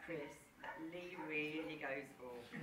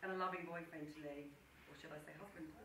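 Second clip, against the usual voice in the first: sincere. Real, not acted. Heartfelt toast to the couple.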